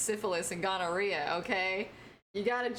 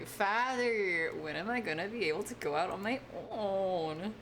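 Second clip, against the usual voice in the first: Pinocchio impression.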